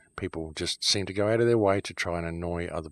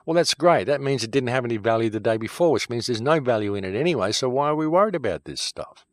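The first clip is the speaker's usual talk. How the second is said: loud, higher, exasperated sarcasm; angry sarcastic rant; 4 semitones higher, 5 dB louder than usual. Real, not acted. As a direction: scoff at it loudly, fed up. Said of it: "I got a little emotional there".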